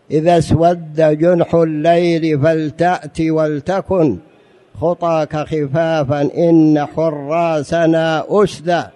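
a slow recited verse; poetry recitation. Shown as a demonstration. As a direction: recite the line like classical poetry. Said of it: "كما قال عمر ابن أبي ربيعة".

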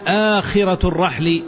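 "آخرة" opening on a long aa; lengthened hamza. Shown as a demonstration. Teacher presenting a third dialect form, "آخرة" pronounced aa-khira. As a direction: stretch the first syllable of "آخرة" as aa-khira. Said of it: "بهمزة ممدودة".

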